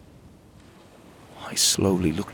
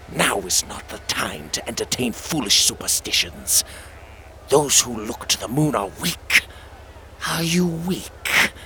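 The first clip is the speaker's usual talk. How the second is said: taunting inner voice; 2 semitones higher than usual. Acted.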